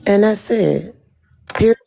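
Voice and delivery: lightly voiced sassy auntie, punchy; Auntie Nitra voice. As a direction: sign off like a no-nonsense auntie. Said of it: "In my Auntie Nitra voice".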